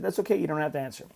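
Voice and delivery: softly retold comfort, lifted pitch; gentle reassurance. Dad to daughter who couldn't answer him, gentle reassurance. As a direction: let her off the hook gently.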